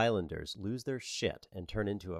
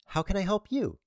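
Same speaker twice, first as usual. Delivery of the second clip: Cindy voice; 11 semitones higher, 5 dB louder than usual. Acted. Cindy continues.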